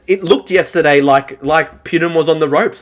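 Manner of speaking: ordinary talk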